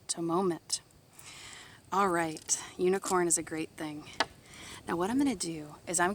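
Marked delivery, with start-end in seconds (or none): 1.9-4.1 whisper. Real, not acted. Whispered aside.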